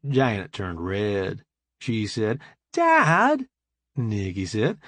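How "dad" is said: high, sharp cry of mock outrage; a mortified daughter calling out her father; embarrassed protest.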